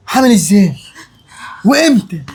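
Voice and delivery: breathless whisper of disbelief; stunned whisper. Acted. Son hearing his sister is pregnant, stunned whisper. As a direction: whisper it in shock.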